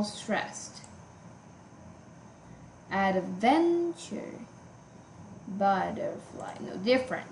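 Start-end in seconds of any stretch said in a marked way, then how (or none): 2.9-4.3 adventure said very slowly, VEN drawn out; stretched syllable stress. Shown as a demonstration. Teacher testing where the stress falls, slowly sounded out. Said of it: "They have different syllables stressed". 5.5-6.5 butterfly said slowly and softly, BUT first; slow syllable check. Shown as a demonstration. Teacher comparing stress patterns, slowly sounded out. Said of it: "They have different syllables stressed".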